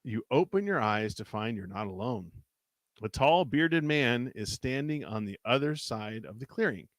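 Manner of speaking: measured read-aloud storytelling; story narration. A narrator's reading. Reading a choose-your-path adventure aloud to a co-host, story narration. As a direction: narrate an adventure, lingering on the suspense.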